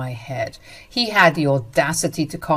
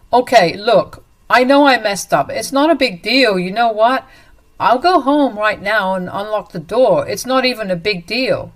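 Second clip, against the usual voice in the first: stammering; 4 semitones higher, 4 dB louder than usual. Acted. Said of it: "Liam was now full-on stammering".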